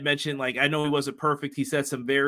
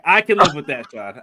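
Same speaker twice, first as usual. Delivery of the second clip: said louder, a mic level test; louder take; 7 dB louder than usual. Shown as a demonstration. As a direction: raise your voice for the mic check. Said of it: "If you get loud".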